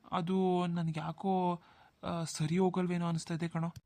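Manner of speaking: slow, drawn-out reluctant start; hesitant doubt. Acted. Brother doubting the proposed match, hesitant. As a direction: stretch the words as you hesitate.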